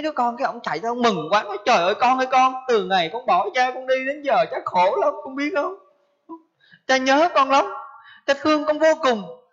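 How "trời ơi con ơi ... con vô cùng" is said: pleading father. Acted. Father meeting his dead son in a dream, pleading. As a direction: pour out a grieving father's longing, voice lifted.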